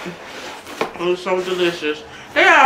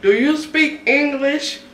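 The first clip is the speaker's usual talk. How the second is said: higher, slow, condescending agent; mock the irritated agent, slow and higher; frustrated caller; 5 semitones higher, slower than usual. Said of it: "He was getting so frustrated".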